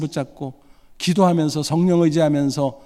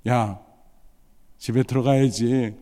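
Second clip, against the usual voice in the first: lower, gentle coaxing tone; calm and gentle; 4 semitones lower than usual. Retold or imitated. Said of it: "조용히 점잖게 곱게".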